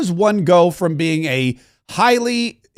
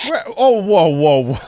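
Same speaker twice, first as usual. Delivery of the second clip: stunned disbelief. Real, not acted. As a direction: caught off guard by the absurd answer. Reacting to the criminologist's answer.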